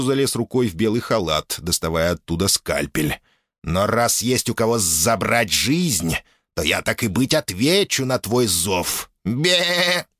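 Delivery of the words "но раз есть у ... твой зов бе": lightly voiced goat demon ending in a bleat; slow, grudging goat creature. Goat demon Uphir answers. (козлиный голос)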